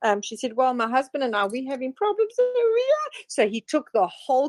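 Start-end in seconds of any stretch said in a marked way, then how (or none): 0.6-2.9 rising into a high mock woman's voice at the end; lightly mimicked woman. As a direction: start near normal, squeak the last words. Woman retold again.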